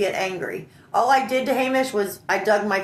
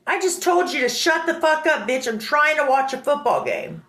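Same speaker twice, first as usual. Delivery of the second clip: higher, insistent mock scolding; retold angry reply; 5 semitones higher than usual. Friend trying to watch football, scolding her angrily. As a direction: imitate an irritated man repeating his order.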